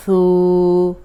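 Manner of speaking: ثو said soft, tongue at the tooth edge, no hiss; soft ثو without whistle. Shown as a demonstration. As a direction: say ثو gently, no whistle at all. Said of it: "نرم حرف ہے، سیٹی کی آواز نہیں".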